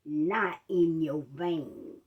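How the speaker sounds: slow, low, careful explanation; walk her through it gently and slowly; patient doctor explaining. Retold or imitated. Doctor explaining to the patient what went wrong, slow calm voice. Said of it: "he said".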